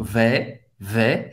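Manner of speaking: "Vais" with an open E, almost smiling, pitched low; open, smiling vowel. Shown as a demonstration. Teacher repeating vais for learners, open smiling vowel. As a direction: open up "vais" into a near smile, silent S. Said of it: "mais aberto, quase um sorriso".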